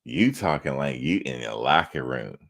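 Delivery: mock him as a wimpy Poindexter; teasing a chatter's weak voice. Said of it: "put some bass in your voice".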